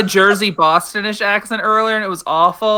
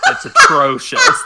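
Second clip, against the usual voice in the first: laughing; 4 dB louder, slower than usual. Real, not acted. Laughing at friend's accent.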